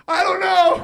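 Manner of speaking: giddy confusion; laughing helplessness. Retold or imitated. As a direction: blurt it out, then crack up. High loud helpless answer then laugh.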